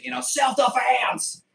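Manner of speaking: high, slow squeaky plea; mock protest. Mock excuse to the police on camera, high and drawn out. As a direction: play the innocent excuse.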